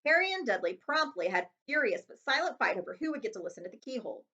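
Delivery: ordinary delivery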